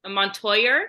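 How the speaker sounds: "Montoyer" with an R sound at the end; imitating an Australian reading of "Montoya". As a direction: say "Montoyer" ending in -er. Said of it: "the A at the end had an R".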